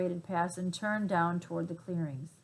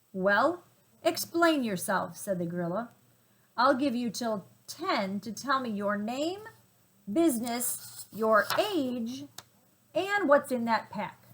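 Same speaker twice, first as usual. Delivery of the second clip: demanding gorilla; 3 semitones higher than usual. Acted.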